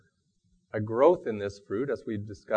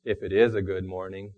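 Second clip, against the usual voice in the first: mildly mopey, low-key Eeyore; a hint of gloomy Eeyore; 4 semitones lower than usual. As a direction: doubt the morning like Eeyore. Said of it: "said Eeyore gloomily".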